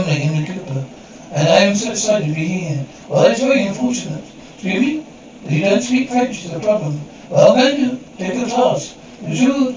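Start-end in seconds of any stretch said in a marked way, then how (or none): 4.5-5.1 taken aback. Acted. Emily taken aback by insult.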